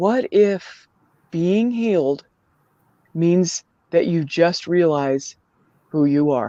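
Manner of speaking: quiet, slow, hushed confiding tone. Retelling a line from a TikTok video: imitating someone speaking quietly. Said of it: "she says really quietly".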